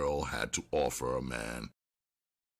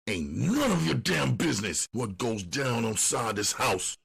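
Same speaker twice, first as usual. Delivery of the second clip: angry; 7 semitones higher than usual. A narrator's reading. Duke continues yelling.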